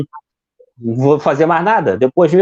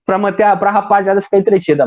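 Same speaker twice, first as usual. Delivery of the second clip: João Kleber style; 3 semitones higher than usual. Pretend. Pretend host teasing viewers to keep the audience, mock showman. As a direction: stop the crowd for the big reveal, mock showman. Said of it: "meio João Kleber".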